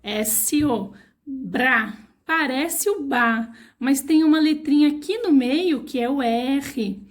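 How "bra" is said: "Bra" with the R made firm; strong syllable. Shown as a demonstration. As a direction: stress the R in "Bra". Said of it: "deixa essa sílaba mais forte".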